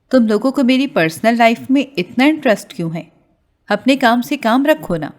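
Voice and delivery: mock-furious yell, hammed up a little; angry shout. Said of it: "سب پر زور زور سے چلانے لگی".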